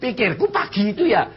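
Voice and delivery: high, loud, laughing near tears; laughing and crying. Real, not acted. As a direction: break between laugh and sob. Laughing confession.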